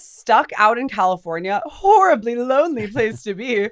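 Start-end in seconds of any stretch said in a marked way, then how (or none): 1.7-3.7 sarcastic. Real, not acted. Ironic about sunny California.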